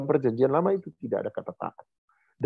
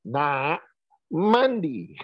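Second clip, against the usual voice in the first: voice raised another octave; 3 semitones higher, much slower than usual. Retold or imitated. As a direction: push the pitch up to press harder. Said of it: "Saya naikin lagi satu oktav suara saya".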